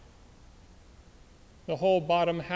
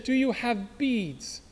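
labored dying voice; 5 semitones higher, slower than usual. Acted. Dying soldier struggles to speak.

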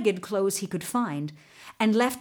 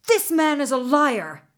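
loud, higher-pitched accusation; roaring; 5 semitones higher, 5 dB louder than usual. A narrator's reading. Governor denounces Jalosh before the king, roaring. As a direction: roar it out in fury. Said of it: "the governor roared".

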